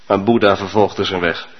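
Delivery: ordinary talk, nothing marked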